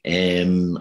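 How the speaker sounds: UM said as an Irish "em"; Irish thinking vowel. Shown as a demonstration. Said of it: "the thinking vowel in Irish, it's M".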